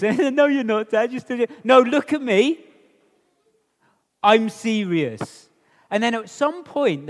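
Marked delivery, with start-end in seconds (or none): 0.0-5.5 louder, mocking the parent; teasing kid. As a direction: tease dad that he can't be serious. Kid keeps mocking dad.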